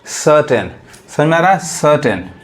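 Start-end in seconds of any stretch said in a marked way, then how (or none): 0.1-0.7 सर्टेन as 'SUH-ten', r silent; taught silent r. Shown as a demonstration. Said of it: "आर को मिटा दीजिए". 1.6-2.3 सर्टेन as 'SUH-ten', r silent; taught silent r. Shown as a demonstration. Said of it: "आर को मिटा दीजिए".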